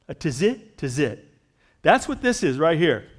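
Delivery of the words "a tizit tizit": "tizit" carefully sounded out as tih-ZIT, twice; careful pronunciation. Shown as a demonstration. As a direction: say "tizit" twice, first rising, then falling. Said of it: "I'm pronouncing the best I can".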